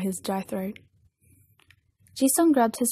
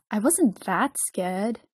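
slow, drawn-out pouty protest; pouting; much slower than usual. A narrator's reading. Jisung denies to Dong-hyuk being scared, pouting. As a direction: protest with a pout, stretching it out. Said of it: "Jisung pouted".

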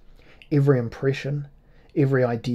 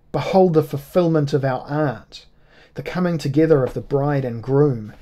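ringing proclamation; 2 semitones higher, 5 dB louder than usual. Acted. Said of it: "Her voice rang like a golden bell".

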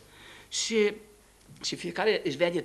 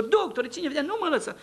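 pleading cry; 7 semitones higher than usual. Retold or imitated. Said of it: "Și spunea cum îs".

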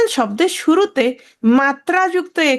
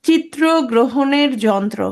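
slow, deliberate word-by-word delivery; measured, slowed-down dictation of a term; drawn-out term; slower than usual. Shown as a demonstration. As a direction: spell out each word slowly. Spelling out an unwieldy translated term.

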